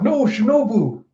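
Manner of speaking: high, stretched call of dismay; retold cry of distress; mock anguished cry. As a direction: wail the name in acted alarm. Cries out for hurt friend.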